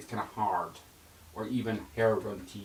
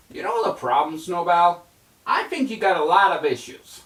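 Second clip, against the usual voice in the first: higher, louder mouse voice; lightly voiced cartoon mouse; Stuart Little voice; 7 semitones higher, 8 dB louder than usual. Stuart Little nagging Snowball, put-on mouse voice.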